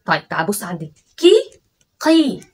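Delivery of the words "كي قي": كي light and high, then قي from the throat; kaf versus qaf. Shown as a demonstration. Teacher contrasting كي and قي so he hears it. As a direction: contrast كي and قي clearly. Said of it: "شفت الفرق؟".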